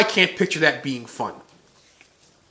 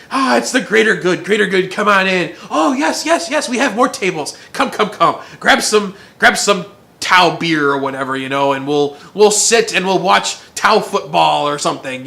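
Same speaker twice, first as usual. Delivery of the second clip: hammed-up cheery host; 3 semitones higher, 4 dB louder than usual. Tau host welcoming guests.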